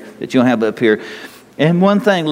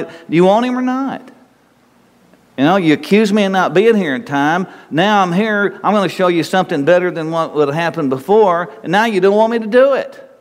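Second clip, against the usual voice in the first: exasperated; 5 semitones higher than usual. Pretend. Preacher voicing exasperated Jesus.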